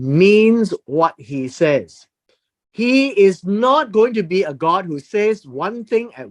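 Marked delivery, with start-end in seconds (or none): 0.0-2.1 slow, weighty stress on means; slow emphatic. Shown as a demonstration. Preacher to congregation, slowly stressing means. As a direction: lean hard on means, drawn out. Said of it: "God says what he means and".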